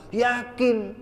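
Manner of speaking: high put-on affirmation; imitated believer's assent. Believer answering whether he is sure, high mock certainty.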